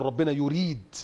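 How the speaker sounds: measured correction landing on يريد; correct wording example. Shown as a demonstration. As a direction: give يريد as the proper word, with a falling close. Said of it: "لا، قول".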